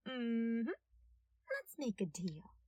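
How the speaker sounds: a cute threat, almost whispered at first; playful dangerous deal; sweetly threatening detective. A narrator's reading. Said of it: "He suggested".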